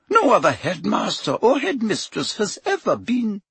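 high, clipped headmistress tone; stern professor. A narrator's reading. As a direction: answer primly and firmly. McGonagall voiced.

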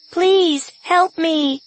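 high, pleading wounded calf cry; calf bawl. Acted. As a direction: bleat it like a hurt calf. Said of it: "The calf's voice continued crying out".

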